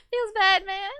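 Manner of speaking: loud high laughing whine; real laughing despair; laugh-crying. Real, not acted. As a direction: laugh through the frustration, half crying. Laughing despair over bingo.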